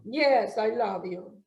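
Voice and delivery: flat, uninterested. Pretend. Husband answering wife without looking up, flat and uninterested. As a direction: say it like you can't be bothered. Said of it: "it was different".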